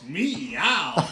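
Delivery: drawn-out two-part meow; exaggerated spoken cat meow. The cat chiming in after the faint, drawn-out meow. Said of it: "Sprinkles goes".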